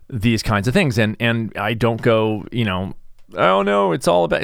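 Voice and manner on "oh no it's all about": high-pitched "oh no" wail, played up; acted-out self-pitying cry; mock lament. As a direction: put on a woe-is-me voice, pitched well up. Mocks self-pity he avoids.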